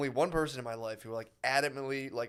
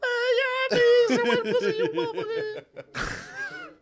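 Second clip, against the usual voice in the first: long high, loud outburst of laughter; 8 dB louder than usual. Shown as a demonstration. Comic cracking up at the bit, loud laughing. Special voice turns to noise.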